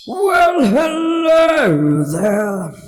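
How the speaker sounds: high, loud, slow squeaking creature; squeaky dolphin voice. A narrator's reading. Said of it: "it said as it squeaked and gruntled".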